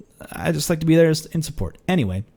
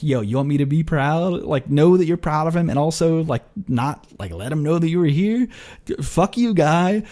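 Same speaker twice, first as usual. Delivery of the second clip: mock exasperation; 5 semitones higher than usual. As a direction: playfully chew out the proud dad. Mock rant at the dad.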